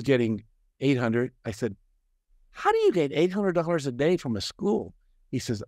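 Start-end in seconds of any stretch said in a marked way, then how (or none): 2.5-4.9 higher, mock-astonished question; retold incredulous question. Asking a friend about his big fee, incredulous. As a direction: ask it in raised-pitch disbelief.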